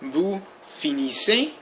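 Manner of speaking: "finissez" said slowly, ending on an open ay; slow model of "finissez" with the last Z unsounded; silent final Z. Shown as a demonstration. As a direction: say "finissez" slowly as fee-nee-say, no Z heard. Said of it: "without pronouncing the Z".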